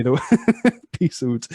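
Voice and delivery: slow, laughing "peace out"; laughing repeat. Retold or imitated. Retelling the joke to the student, laughing slowly. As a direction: savor the punchline through a laugh. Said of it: "It was so funny".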